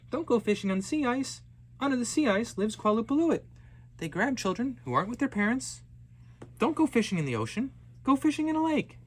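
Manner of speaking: high, loud cautioning cry; warning mother. Acted. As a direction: stop the child with a sharp warning. Mother warns the daughter.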